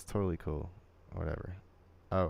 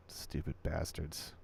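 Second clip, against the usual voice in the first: muttered under breath; 7 dB quieter, slower than usual. Real, not acted. Muttered aside at them.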